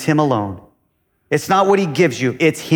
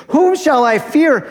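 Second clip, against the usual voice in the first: much higher, louder, ringing out; proclaimed; 11 semitones higher, 4 dB louder than usual. Shown as a demonstration. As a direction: shout it as a bold declaration. Same psalm line repeated proclaimed.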